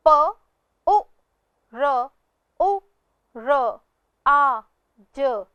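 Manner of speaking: प उ र उ र आ ज, one sound at a time; spelled sound by sound. Shown as a demonstration. Teacher to pupils, sounding out पुरुराज. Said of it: "दूसरा शब्द है".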